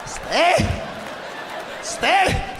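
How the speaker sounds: firm parent command. Retold or imitated. Parents holding boy over steaming water, stern. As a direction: hold him there with a stern order.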